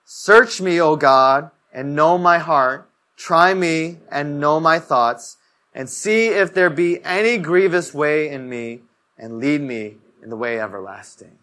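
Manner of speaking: reverent, measured recital; leading the verse aloud; slow scripture reading. Real, not acted. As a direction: read the psalm slowly and solemnly. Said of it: "Can we read it together?".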